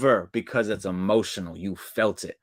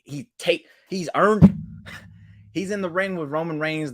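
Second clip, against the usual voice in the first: much higher and louder, real fervour; passionate shout; 8 semitones higher, 4 dB louder than usual. Real, not acted. Fan insisting Sami deserves the title, real passionate shout. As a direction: shout it like a fan who means it.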